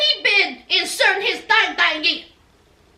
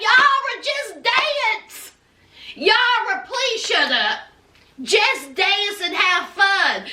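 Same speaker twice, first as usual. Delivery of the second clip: exasperated scolding; 3 semitones higher, slower than usual. Retold or imitated. Narrator scolding the couple, slow and fed up. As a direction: tell them to knock it off. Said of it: "I was like".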